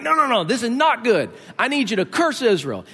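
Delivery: a king losing patience with his hired prophet; frustrated king. Retold or imitated. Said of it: "the king's like".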